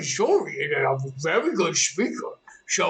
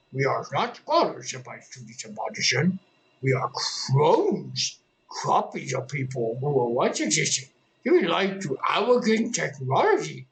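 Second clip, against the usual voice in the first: clone character voice; 3 semitones lower than usual. Acted. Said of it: "whenever I first did this voice".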